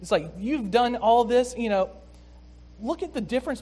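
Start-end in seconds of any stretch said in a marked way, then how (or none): 0.4-1.9 disrespectful. Retold or imitated. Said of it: "feel the disrespect coming from him".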